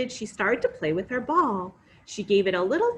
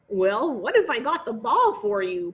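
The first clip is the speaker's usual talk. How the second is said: sly frog offer; 5 dB louder than usual. Acted. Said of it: "proposed the frog".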